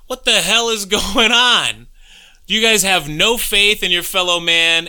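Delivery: hammed-up New York street accent calling out to friends in line; New York pseudo-Boston accent. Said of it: "New York pseudo-Boston accent you had going on there".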